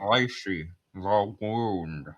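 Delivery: put-on glamorous old film star voice; old Hollywood transatlantic drawl; transatlantic accent. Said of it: "I was doing the voice for Lacey".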